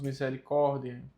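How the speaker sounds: "misericórdia" ending dee-eh, no A; silent A. Shown as a demonstration. Teacher explaining the mute A, E ending. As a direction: close "misericórdia" on an E. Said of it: "A pronúncia do A fica muda".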